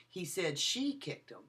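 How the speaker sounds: she punched, the rest falling away; stress on SHE. Shown as a demonstration. Lecturer showing students stress on she. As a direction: hit the word she as if naming the culprit. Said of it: "I changed the emphasis of the word".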